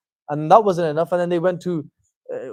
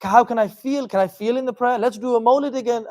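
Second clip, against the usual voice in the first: mock emotional seeker; 5 semitones higher than usual. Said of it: "which is".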